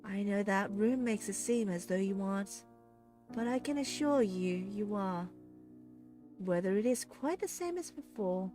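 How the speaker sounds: smug villainess explaining her scheme; smiling menace. A narrator's reading. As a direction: savour every word. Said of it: "hear the voice smiling".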